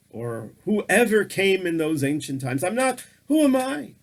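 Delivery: lightly voiced humble rabbi, asking "who am I"; doubting Rabba bar Bar Chana. Rabba bar Bar Chana questioning his worth before God, lightly voiced disbelief.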